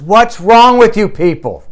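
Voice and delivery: high, loud exasperated yell at an audience; retold yell. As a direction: imitate a preacher yelling at the crowd. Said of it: "He yells at 'em".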